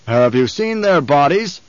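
slow, heavy menace; slow, weighty demand to a nervous captain; rumbling Baron. Acted. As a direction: let it roll out slowly like a threat. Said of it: "the Baron rumbled".

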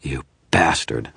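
slow, bitter snarl. Acted. Wizard curses the image for threatening the woman, snarling. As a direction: grind the insult out. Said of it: "I snarled".

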